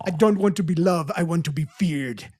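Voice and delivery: imitated African accent; lightly put-on African accent. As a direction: deliver it as the teacher in an African accent. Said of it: "in her accent".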